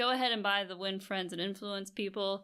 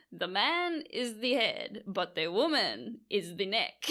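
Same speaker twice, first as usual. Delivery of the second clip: put-on slow, half-hearted Greek accent; a fading attempt at a Greek accent; slower than usual. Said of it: "That was the worst Greek accent in the world".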